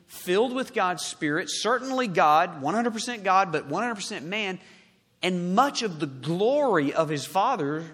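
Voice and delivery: loud, ringing sermon delivery; forceful preaching. Acted. Preacher declaring the Son of Man's glory, forceful. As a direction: proclaim it with force, punching key words.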